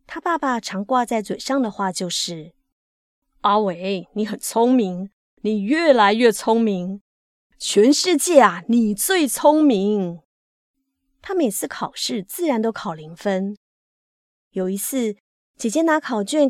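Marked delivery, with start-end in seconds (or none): 3.4-10.2 hearty father's praise, building louder; praising father. A narrator's reading. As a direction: praise your son emphatically, drawing out the last words. 爸爸常挂嘴上的夸奖. (爸爸由衷地夸儿子，语气越来越肯定)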